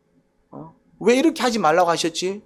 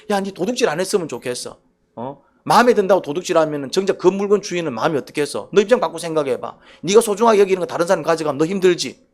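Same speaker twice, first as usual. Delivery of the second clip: gentle pleading; 2 semitones lower than usual. Shown as a demonstration. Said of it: "이런 말투라니까".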